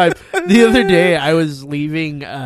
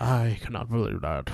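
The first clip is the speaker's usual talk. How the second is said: offended; 4 semitones lower, 6 dB quieter than usual. Retold or imitated. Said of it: "Kevin was so offended".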